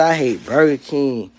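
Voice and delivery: slow, mocking repeat of the commenter; slow mocking quote. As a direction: draw out the quote slowly, mocking him. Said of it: "boy say".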